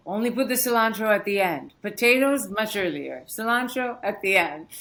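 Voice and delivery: put-on brisk, bossy grandma instructing a child; voicing grandma. Granddaughter voicing her grandmother's kitchen rule, lightly imitated firm instruction.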